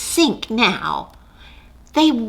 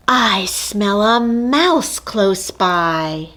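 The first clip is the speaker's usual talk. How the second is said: slow, drawn-out, sniffing suspiciously; sly mother cat; 3 dB louder, much slower than usual. Acted.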